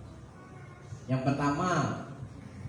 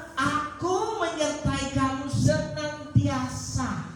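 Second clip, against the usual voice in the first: quoting God; slower than usual. Acted. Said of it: "Dia berkata".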